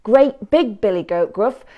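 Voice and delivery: high, hesitant goat; nervous goat voice. A narrator's reading. Middle goat talking the troll out of eating him, high and hesitant. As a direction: stall for time, a little scared.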